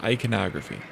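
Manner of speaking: "Iconography" as eye-kuh-NOG-ruh-fee; correct pronunciation. Shown as a demonstration. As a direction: stress the NOG in "Iconography", ending on a fall. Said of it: "the way that it's supposed to be pronounced".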